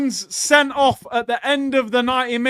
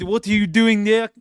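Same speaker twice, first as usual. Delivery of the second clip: attempted Dutch accent; a rough stab at a Dutch accent. Fan mimicking the angry manager Slot, poor Dutch accent. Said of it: "that was my Dutch accent".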